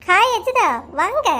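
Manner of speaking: high, bouncy greeting; delighted welcome. Acted. Wife greets a visiting friend, high delighted welcome.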